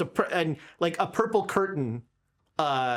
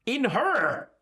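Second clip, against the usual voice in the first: Brugia in character; 6 semitones higher than usual. Acted. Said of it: "Brugia says".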